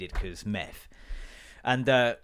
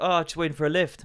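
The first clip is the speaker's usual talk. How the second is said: raised, casual Irish voice; Irish accent; 5 semitones higher than usual. Retold or imitated. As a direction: imitate an Irishman offering an excuse. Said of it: "I shouldn't do the accent".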